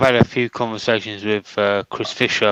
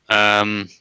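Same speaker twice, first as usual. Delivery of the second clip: searching for the right word; hesitant, groping for a word; fumbling for words; 3 dB quieter than usual. Real, not acted. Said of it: "what's the word I'm looking for?".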